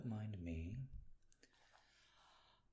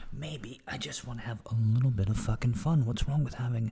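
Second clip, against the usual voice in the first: louder, defiant burst of fun; 3 semitones higher, 7 dB louder than usual. Real, not acted. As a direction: push it out loud and defiant. Defiant outburst after quiet rambling.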